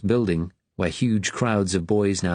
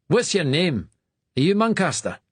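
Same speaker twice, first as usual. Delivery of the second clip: stern master; 10 semitones higher than usual. A narrator's reading. Stern master questions new boy.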